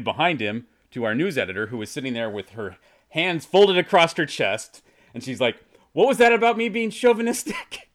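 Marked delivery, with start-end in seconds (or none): 5.9-7.9 high, loud mock confrontation; indignant challenge. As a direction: act out an editor calling him out. Editor challenges the angry husband.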